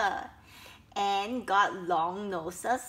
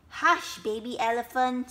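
louder, mildly scolding hush; hushing mother; 5 dB louder than usual. Acted. Mother to baby elephant, hushing him. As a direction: cut off the little one's question.

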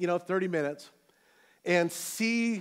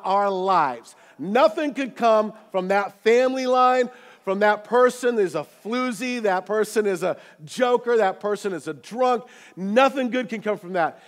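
loud, emphatic preacher delivery; forceful preaching; 3 semitones higher, 6 dB louder than usual. Acted. Preacher to congregation about being written off, forceful preaching. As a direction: drive each phrase home to the room.

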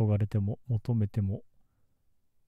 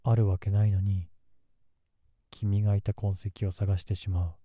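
menacing. Acted. Obsessive outburst, louder.

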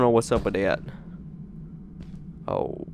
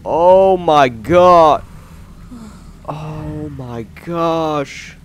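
very slow, drawn-out gasping relief; breathless relief; 5 semitones higher, 6 dB louder, much slower than usual. Real, not acted. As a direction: exhale after a near miss. Relief after close call.

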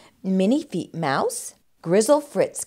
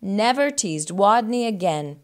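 measured storybook ending; expressive picture-book narrator; children's story narration. A narrator's reading.

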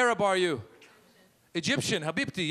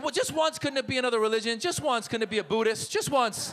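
higher, laughing whine; mock pleading; 7 semitones higher than usual. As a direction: beg the heavens half joking. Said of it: "I was like".

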